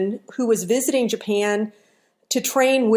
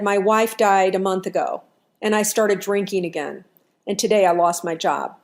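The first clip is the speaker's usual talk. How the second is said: understated sorrow, voice sinking lower; sad; 3 semitones lower than usual. Acted. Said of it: "he looked really sad".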